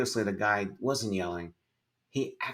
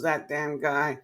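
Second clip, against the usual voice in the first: angry cursing; 7 semitones higher, slower than usual. Retold or imitated. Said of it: "so pissed off".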